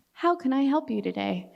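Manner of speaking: flight attendant. Acted. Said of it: "in my flight attendant voice".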